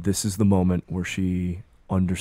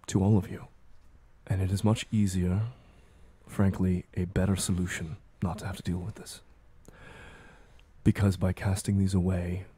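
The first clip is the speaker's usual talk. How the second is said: a softer, even, detached voice for the armored Ramona; armored Ramona, calm and cold; 4 dB quieter than usual. Acted. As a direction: speak like a resigned ruler who has already decided.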